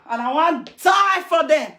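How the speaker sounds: a shouted mock pledge of loyalty; mock shouted vow. Imitating a group member, shouting his vow to die for them. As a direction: yell it like an overeager follower. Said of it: "You're gonna say".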